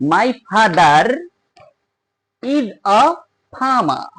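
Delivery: father's r linked into is, farmer without r sounds; linking r. Shown as a demonstration. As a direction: say farmer as farma. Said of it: "তৃতীয় রুলটা". (ফাদার আর ইজ জুড়ে, ফার্মা)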